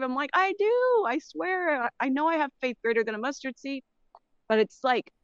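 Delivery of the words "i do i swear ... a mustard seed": high, fast insistence, pleading to be believed; insistent protest. Retold or imitated. Caller protests to people doubting her faith, high and fast. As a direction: swear it, pitched way up.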